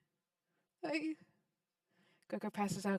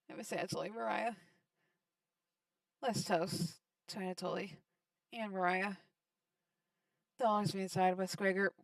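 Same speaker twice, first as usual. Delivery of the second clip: Karen's somber toast. Acted.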